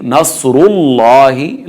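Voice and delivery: नसरुल्लाहि with a full, heavy ra and lam; heavy raa. Shown as a demonstration. Teacher modelling the verse for students, heavy raa. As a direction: slowly recite नसरुल्लाहि, thickening the ra. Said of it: "रा मोटी पढ़ी जाएगी".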